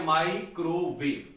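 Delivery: 'माइक्रोवेव' slowly as माइ, क्रो, वेव; three measured beats on 'माइक्रोवेव'; syllable split. Shown as a demonstration. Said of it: "तीन syllable हो गए". ('माइक्रोवेव' को धीरे, तीन खंडों में)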